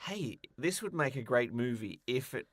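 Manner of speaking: ordinary talk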